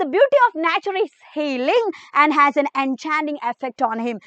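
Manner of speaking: very slow, word by word English reading; dictating to a class; slow note dictation. Acted. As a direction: read the notes out slowly for students to copy. Reads English notes aloud.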